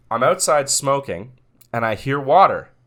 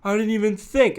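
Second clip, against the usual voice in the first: sheepish neighbor; 11 semitones higher than usual. Retold or imitated. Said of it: "And he's like".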